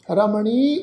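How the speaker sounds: ਰਮਣੀ with a lengthened final ee; drawn-out final vowel. Shown as a demonstration. Teacher showing the long vowel mark, ਰਮਣੀ with its ending drawn out. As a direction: hold the last vowel of ਰਮਣੀ. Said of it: "ਉਹਨੂੰ ਲਮਕਾ ਕੇ ਉਚਾਰਨ ਕਰਾਂਗੇ".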